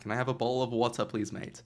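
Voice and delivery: quick, unconvincing British accent; attempted British accent. Shown as a demonstration. Copying a co-caster's water request, attempted British accent. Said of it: "give me your best British accent".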